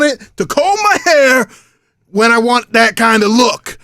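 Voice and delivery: lightly voiced cocky wrestler boasting; wrestling promo. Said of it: "Oh, let's cut a promo".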